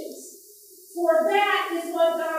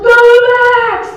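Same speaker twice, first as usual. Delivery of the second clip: mild mock cheer; 7 semitones higher, 15 dB louder than usual. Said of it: "I am a cheerer".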